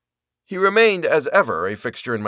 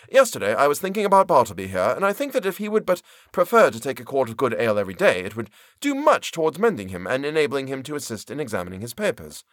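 voiced Turkey; 3 semitones higher than usual. Turkey voiced, advising ale.

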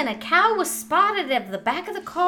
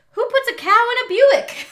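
laughing through the quote; 10 semitones higher, 6 dB louder than usual. Real, not acted. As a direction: crack up mid-sentence. Reading a funny quote, laughing.

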